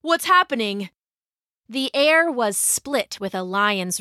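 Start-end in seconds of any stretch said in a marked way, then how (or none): 0.0-0.9 higher-pitched, alarmed question; bewildered, voice raised in pitch; startled confusion. A narrator's reading. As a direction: ask it as if just shaken awake. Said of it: "he stammered".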